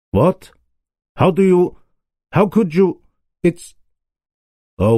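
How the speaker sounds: high, startled sputtering that settles at the end; startled cry. A narrator's reading. A king unmasked by Holmes, crying out in startled shock. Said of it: "he cried".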